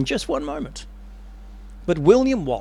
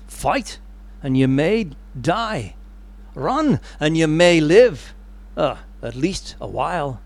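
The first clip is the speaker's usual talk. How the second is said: bad Scottish accent. Wallace answers the veteran, lightly faked Scottish accent. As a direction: weigh each choice in an attempted Scots accent. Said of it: "I'm gonna do a really bad accent here".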